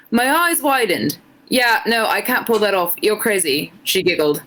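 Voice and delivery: put-on a shaky try at an Irish accent, drifting British; reading fan fiction aloud in a so-so Irish lilt; attempted Irish accent. Streamer reading fan fiction to chat, in a struggling Irish accent. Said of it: "but read in an Irish accent".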